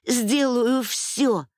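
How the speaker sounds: slow, high, pleading repeat; drawn-out desperate promise; repeated plea. Acted. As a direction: beg it slowly, voice lifting. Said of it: "повторила я".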